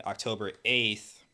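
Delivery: slow down on the date, then a long pause; halting as the memory takes over; pausing in recollection. Real, not acted. Protester recalling that night to the hosts, pausing. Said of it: "I'm sorry, I'm kinda pausing".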